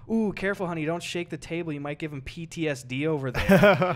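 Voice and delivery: sarcastic warning meant to be overheard; pointed mock concern. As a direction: tease loudly enough for the next table. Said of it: "I was saying it loud enough so that they could maybe hear".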